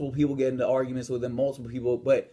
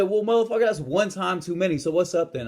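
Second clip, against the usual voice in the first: higher-pitched, heated comeback; retold angry challenge; 6 semitones higher than usual. Gym-goer confronting the staring bully, retold heated challenge. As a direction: square up to him, mildly worked up.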